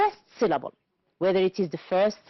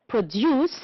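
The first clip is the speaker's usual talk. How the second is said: "Produce" stressed on DUCE; stress on second syllable; 2 semitones higher than usual. Shown as a demonstration. Teacher giving the verb, second syllable of "Produce" stressed. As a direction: land on the end of "Produce". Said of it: "On the second syllable".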